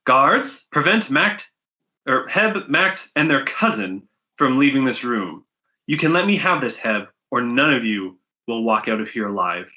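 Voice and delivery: threatening npc. Acted. Trinks threatens party.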